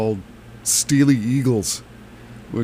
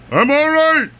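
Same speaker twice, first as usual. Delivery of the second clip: put-on New England accent; 4 dB louder than usual. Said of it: "in his inimitable New England thick accent".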